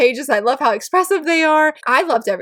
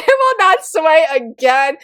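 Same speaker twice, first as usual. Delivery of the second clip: fangirl swoon; 4 semitones higher than usual. Retold or imitated. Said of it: "fangirled together".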